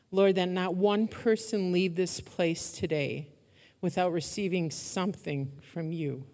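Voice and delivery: soft, earnest closing prayer; quiet prayer. Real, not acted. Pastor praying over congregation and online listeners, soft earnest prayer. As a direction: pray gently over the listeners, voice dropping.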